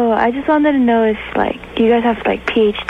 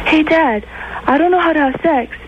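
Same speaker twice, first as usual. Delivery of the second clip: lightly voiced son, pitched higher; clueless son; 5 semitones higher than usual. Son asks his dad how it's done, lightly voiced higher. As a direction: raise your voice a little for the naive son. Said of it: "and he goes".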